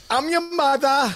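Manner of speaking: high, drawn-out Long Island mom; Long Island accent. Retold or imitated. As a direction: imitate a mother with a thick Long Island accent. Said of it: "get rid of this Long Island accent".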